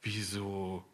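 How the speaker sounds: a touch of the indignant wife; wife indignantly protests she can be told anything. Retold or imitated. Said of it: "guckte sie mich ganz entrüstet an".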